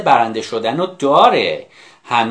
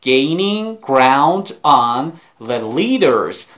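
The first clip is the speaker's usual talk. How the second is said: slow model reading; much slower than usual. Shown as a demonstration.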